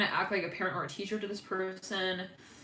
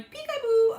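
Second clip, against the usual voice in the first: high-pitched, louder game call; playful peekaboo; 7 dB louder, slower than usual. Acted. Reader voicing a peekaboo she hears, playful high call.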